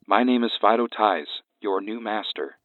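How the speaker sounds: flat, emotionless alien voice; monotone alien master. Acted. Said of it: "said the alien in a monotone voice".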